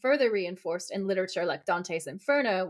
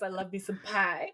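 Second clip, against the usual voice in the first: cutesy voice; 2 semitones lower, 4 dB quieter than usual. Retold or imitated. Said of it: "he goes".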